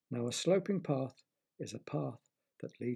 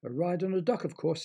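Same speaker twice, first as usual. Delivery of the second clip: frog voice; 4 semitones higher, 3 dB louder than usual. Acted. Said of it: "said the frog".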